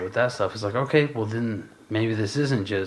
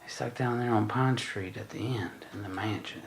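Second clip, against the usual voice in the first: put-on Texas accent; 7 dB quieter than usual. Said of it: "I don't know why I'm doing this accent".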